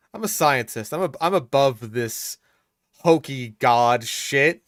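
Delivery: mock smug know-it-all, drawn out at the end; smug Redditor. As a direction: sneer it like a superior Redditor. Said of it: "it's giving Redditor vibes".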